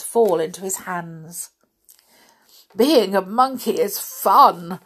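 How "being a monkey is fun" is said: slow, loud, talking through banana; mouth full. Acted. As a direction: say it round a mouthful. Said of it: "through a mouthful of banana".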